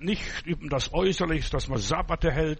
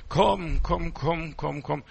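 beckoning voice; much slower than usual. Retold or imitated. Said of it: "eine Stimme sagt".

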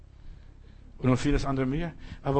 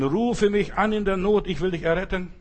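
solemn divine call; 4 semitones higher, 4 dB louder than usual. Acted. God's promise, slow and raised.

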